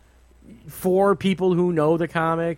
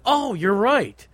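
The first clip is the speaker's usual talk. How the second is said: sudden realization; 3 semitones higher than usual. Retold or imitated. Moviegoer answering girlfriend about the wheelchair, sudden realization. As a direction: retell it as the penny dropping. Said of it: "And I was like".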